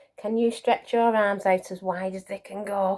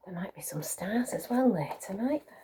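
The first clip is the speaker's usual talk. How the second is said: whisper; 7 dB quieter than usual. Real, not acted. Hushed aside to children.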